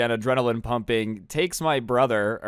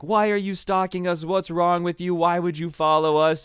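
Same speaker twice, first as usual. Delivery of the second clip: mock yelling; 5 semitones higher than usual. Cousin yelling at the stalker, mildly acted yell. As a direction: imitate a cousin demanding answers. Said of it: "my cousin's yelling at him".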